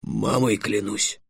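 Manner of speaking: slow, heartfelt dragon vow; solemn oath. Acted. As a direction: swear it earnestly, drawing it out. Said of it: "воскликнул дракон". (клятвенно, с растяжкой)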